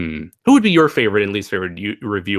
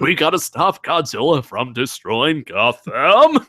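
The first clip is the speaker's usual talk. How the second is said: Batman voice; slower than usual. Pretend. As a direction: play it like Batman. Batman impression bit.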